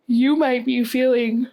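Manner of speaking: words stretched by a big real yawn; yawning through words. Real, not acted. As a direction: yawn right through the phrase, high and loud. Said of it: "I can't stop yawning".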